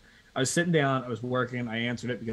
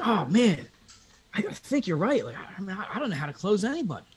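mock helpless; 7 semitones higher than usual. The speaker fakes helpless prospect.

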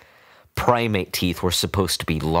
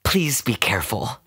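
put-on doting old woman; 4 semitones higher than usual. A narrator's reading. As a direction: coo and scold like a doting owner. Woman warns vet.

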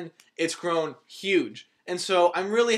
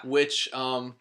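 talking with swollen cheeks after wisdom teeth; words a little muffled by sore swollen cheeks; 2 semitones lower than usual. Real, not acted. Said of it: "my voice sounds a little funny when I talk".

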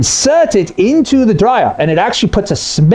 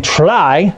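"try" leaned on with doubt; stress on try. Shown as a demonstration. Repair man doubting steam dryers, "try" stressed sceptically. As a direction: give "try" a sceptical weight. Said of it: "I stress that word".

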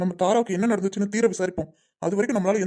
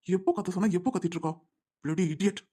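muted irritated aside; 6 dB quieter than usual. Acted. Schemer privately cursing his accomplice, muted irritated aside. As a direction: grumble softly to yourself.

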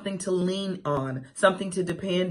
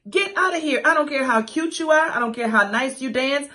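sassy brush-off; 6 semitones higher, 3 dB louder than usual. Real, not acted. Sassy dismissal.

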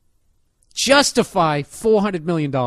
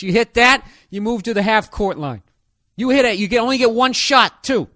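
hyped announcer shouting; 3 semitones higher, 4 dB louder than usual. Pretend. Host escalating loudly.

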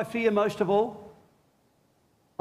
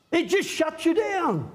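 slow shout; 8 semitones higher than usual. Real, not acted. Preacher to congregation, a slow ringing shout. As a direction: drive the point home hard. Preacher peaks on condemnation's effect.

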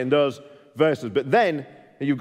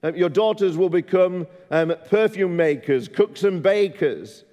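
higher, earnest plea as Samuel; pleading prophet; 3 semitones higher than usual. Retold or imitated. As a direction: urge them to think of their sons. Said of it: "He says".

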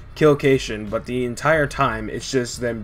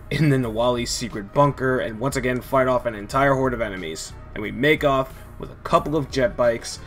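emotionally drained. Real, not acted. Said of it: "why I sound so drained".

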